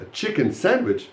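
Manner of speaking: chicken lifted high, sandwich falling; stress on chicken. Shown as a demonstration. Teacher quizzes the class on meaning, stressing chicken. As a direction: pick out chicken against other fillings. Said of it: "not a tuna sandwich".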